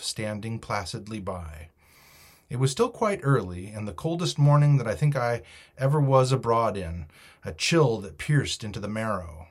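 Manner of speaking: measured, expressive audiobook reading; story narration. A narrator's reading. Reader tells listeners of the cold morning at the stockade, story narration. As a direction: tell it as an adventure tale.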